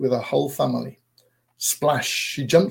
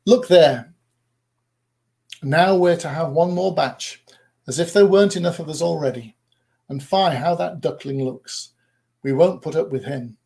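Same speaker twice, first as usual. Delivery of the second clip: mild sneer; 2 semitones higher than usual. Acted. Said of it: "said quite loudly".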